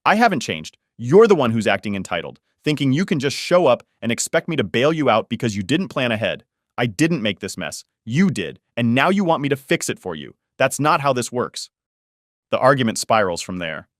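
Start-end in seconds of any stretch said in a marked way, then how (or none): 0.0-11.7 firing back angrily. Acted. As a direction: hit back at her, heated and defensive. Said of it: "I fire back".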